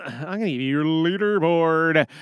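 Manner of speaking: put-on British announcing; British accent. Host introducing the leaderboard, playful British accent. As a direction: play it British for a moment. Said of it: "that whole thing in the British accent".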